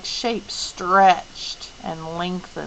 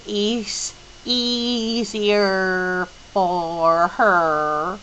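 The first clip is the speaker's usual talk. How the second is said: slow odd voice; 3 dB louder, much slower than usual. Acted. Mrs Whatsit speaking, slow odd voice.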